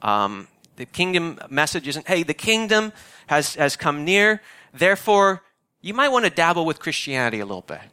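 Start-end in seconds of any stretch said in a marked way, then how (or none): 2.1-7.8 higher, breezy mock sales voice; a lightly voiced flippant preacher; mock casual pitch. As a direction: make it sound cheap and optional. Mocking a watered-down message.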